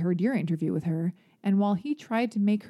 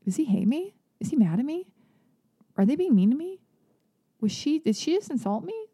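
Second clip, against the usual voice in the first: higher-pitched, wounded questions, acted out; insecure questioning; 6 semitones higher than usual. Confused victim of sarcasm wondering afterwards, imitated insecure questioning. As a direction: worry aloud, each question lifted. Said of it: "they walk away being like".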